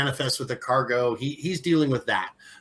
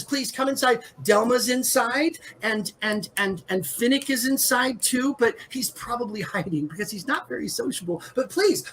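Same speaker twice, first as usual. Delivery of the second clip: high, excited sing-song chatter; a bubbly hostess gushing over new guests; sing-song Edra; 10 semitones higher than usual. Acted. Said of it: "she has a very sing-songy kind of voice".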